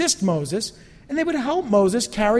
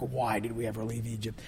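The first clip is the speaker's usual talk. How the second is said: mock whine; 9 semitones lower, 12 dB quieter than usual. Mocking the Israelites' whine.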